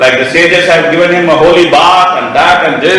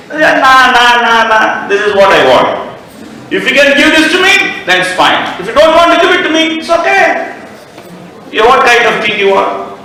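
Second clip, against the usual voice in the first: stubborn queen; 6 semitones higher than usual. Acted. Kaikeyi coldly refuses the king.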